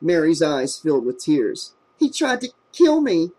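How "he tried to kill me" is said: high, tearful moan. A narrator's reading. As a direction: moan it out in fear. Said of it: "she moaned".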